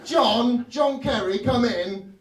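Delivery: put-on lightly posh British accent calling out; posh British Obama. Obama calling Kerry into the office, lightly posh British accent. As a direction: summon an aide in mild posh English. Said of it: "why are you speaking with a British accent".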